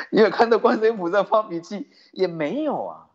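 amused repeat of the question; laughing. Real, not acted. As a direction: tease the crowd with a laugh in the voice. Same question repeated, now laughing.

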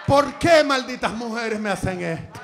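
hammed-up cry to the heavens; loud, dramatic mock complaint; mock lament.

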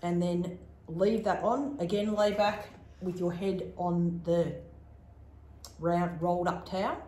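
talking with cheeks stuffed; mouth full. Real, not acted. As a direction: speak around pads in the mouth. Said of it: "You sound like you've got a mouthful of chewy".

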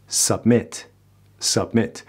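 "Submit" with a weak "suh" and short i; schwa, correct English. Shown as a demonstration. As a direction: reduce the first vowel of "Submit".

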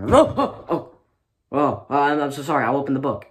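put-on flustered kid blurting apologies, laughing; panicked apology. Scared student apologizing to the yelling teacher, panicked and fast.

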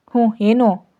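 a curt, serious boss; stern grunt, then a short demand; serious, dismissive boss asking what she wants; stern question. A narrator's reading. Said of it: "ಅವನು ಗಂಭೀರವಾಗಿ ಕೇಳ್ದ".

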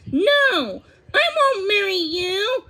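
high, loud refusal; shouted refusal rising in pitch; defiant declaration. A narrator's reading. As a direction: declare it defiantly, drawing out the last words. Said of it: "she declared".

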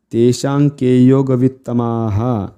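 flowing Sanskrit verse chant; fluent recitation. Shown as a demonstration. Teacher rounds off the drill, flowing recitation. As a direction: recite the line in one connected sweep.

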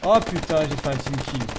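agitated. Real, not acted. Apologizing after team kill.

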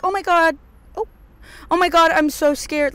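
high, loud, hammed-up fright; mock panic. Mocking people who make a commotion, exaggerated panic. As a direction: imitate someone making a big scared fuss. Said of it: "I am not the type to".

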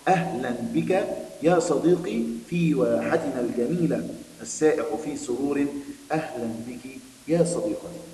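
slow, clear read-aloud for pupils; story reading. Acted. Teacher reading the lesson story to her pupils, slow and clear. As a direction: read the story slowly to the class, lingering on words.

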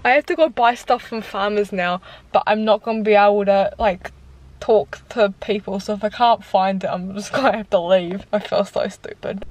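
numbed lips, mushy words; words slurred by anaesthetic; numb mouth. Real, not acted. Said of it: "the whole side of my mouth is numb".

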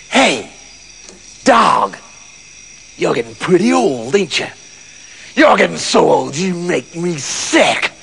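low voice of a contemptuous farmer; hint of a nasty farmer, scornful; lightly voiced horrible farmer. Farmer addresses the old dog.

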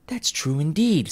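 put-on high, slow old woman; laundress agreeing. A narrator's reading. Laundress agreeing with the first woman, high and slow. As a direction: drawl agreement like a gossip. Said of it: "said the laundress".

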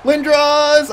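high, loud cheer for a player; excited shout. Real, not acted. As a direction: yell the name as he scores. Cheering a player during gameplay.

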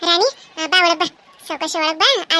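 calling the bride in, loud. Acted. Elder calling the new bride into the house, loud. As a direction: call her inside warmly but loud.

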